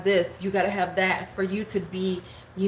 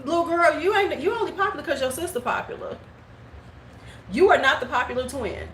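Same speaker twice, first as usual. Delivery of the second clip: sassy retort; 4 semitones higher than usual. Retold or imitated. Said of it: "'cause I'm like".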